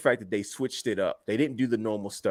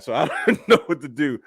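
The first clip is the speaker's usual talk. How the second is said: amused, raised-pitch mock quote; laughing retelling; 4 semitones higher, 4 dB louder than usual. Laughs while retelling wrestler's line.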